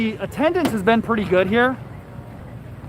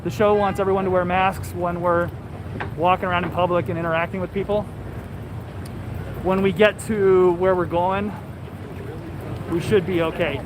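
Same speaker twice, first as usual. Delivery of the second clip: talking through a face mask; muffled by a mask, words dulled. Real, not acted. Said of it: "the muffled audio because we are wearing masks".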